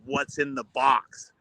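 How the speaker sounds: slow, drawn-out eerie voice of a doll; creepy doll voice. Retold or imitated. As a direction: spell it out slowly like a haunted toy. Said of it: "And you hear this voice".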